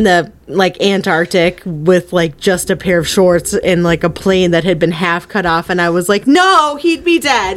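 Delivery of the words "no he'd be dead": high, drawn-out mock outcry; retold exasperated protest. Recalling an implausible survival in the movie, exasperated outcry. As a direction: protest the absurd plot hole. Retold outburst at film's mistake.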